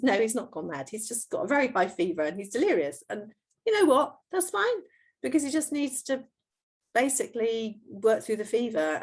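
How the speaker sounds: lilting, high-voiced "it's all fine" to a daughter; reassuring mum. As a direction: lightly act out a mother explaining away a child's panic. Mother retells reassuring her frightened daughter.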